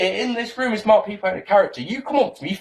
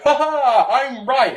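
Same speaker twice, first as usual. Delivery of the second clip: smug gloat; 4 semitones higher, slower than usual. Retold or imitated. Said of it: "you come away from it and go".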